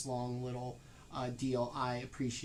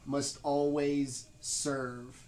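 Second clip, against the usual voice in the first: haunting voice; 3 dB louder, much slower than usual. Acted. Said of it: "vicious, deep, haunting voice".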